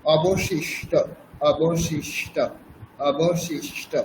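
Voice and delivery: অবশিষ্ট with palatal sh, then retroflex sh before ট; careful অবশিষ্ট, two sh sounds. Shown as a demonstration. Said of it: "প্রথমে তালব্য শ, তারপর মূর্ধন্য ষ".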